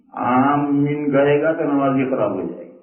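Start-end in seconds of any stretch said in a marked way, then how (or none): 0.1-1.1 آمین with the m held double; doubled-m amen. Shown as a demonstration. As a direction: stretch aa, then press a double mm in آمین. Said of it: "میم پر تشدید نہیں آنی چاہیے".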